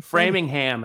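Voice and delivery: Framingham said "FRAY-ming-HAM" with a full ham; local pronunciation. Shown as a demonstration. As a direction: Framingham ending in a clear "ham". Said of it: "is how they say it up there".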